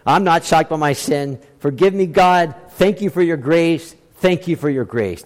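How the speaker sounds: murmured humble prayer to God; quiet prayer. Retold or imitated. Preacher recalling his Saturday night prayer, soft and humble. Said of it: "I get on my knees and I say".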